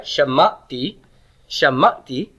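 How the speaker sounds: shamati with the sh sound and the stress on the ma syllable; Hebrew word shamati. Shown as a demonstration. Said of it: "I heard".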